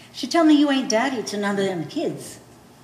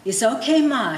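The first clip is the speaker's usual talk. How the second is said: Teddy; 4 semitones higher, 5 dB louder than usual. Retold or imitated. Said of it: "he say".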